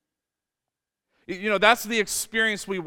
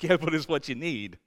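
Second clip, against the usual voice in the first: gentle God. Retold or imitated. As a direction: reassure a sulking child calmly. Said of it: "He's like".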